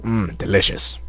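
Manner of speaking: pausing to drink; sipping a drink. Real, not acted. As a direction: takes a sip, savoring it. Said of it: "pause for a drink".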